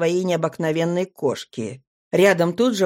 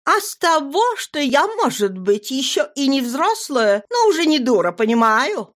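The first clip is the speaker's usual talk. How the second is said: put-on higher, earnest young girl; 6 semitones higher than usual. A narrator's reading. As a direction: speak up as a girl. Nadira voiced, higher.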